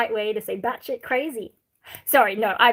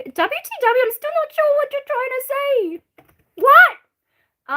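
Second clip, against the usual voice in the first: baffled; 9 dB louder, slower than usual. Real, not acted. Reading chat question in disbelief.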